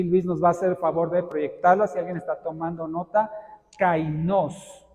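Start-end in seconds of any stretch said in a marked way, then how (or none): 3.8-4.9 Kainos pronounced kai-NOS, hard K; stress on final syllable. Shown as a demonstration. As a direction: put the accent on the O in Kainos. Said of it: "con K y acento en la O".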